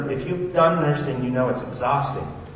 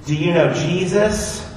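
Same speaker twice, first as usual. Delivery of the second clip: put-on earnest child; 7 semitones higher, 4 dB louder, slower than usual. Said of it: "And I said".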